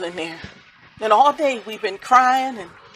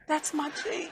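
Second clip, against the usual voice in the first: broken identification; 5 semitones higher, 14 dB quieter than usual. Retold or imitated. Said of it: "look at his ... and say".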